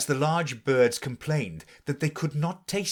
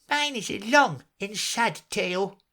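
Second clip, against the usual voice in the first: higher mouse voice, long sad sigh; 10 semitones higher than usual. A narrator's reading. Mouse turning to Alice, sighing over its tale. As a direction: lament it with a sigh. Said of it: "turning to Alice and sighing".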